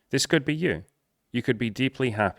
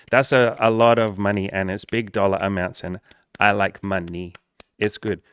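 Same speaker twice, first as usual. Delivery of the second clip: mock impressed viewer; 5 dB louder than usual. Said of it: "I sound like I'm mocking a lot of you".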